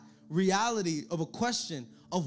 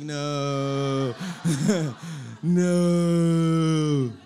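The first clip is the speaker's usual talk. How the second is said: grumbling worker; 7 semitones lower, 4 dB louder, much slower than usual. Retold or imitated. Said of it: "a lot of you guys are like".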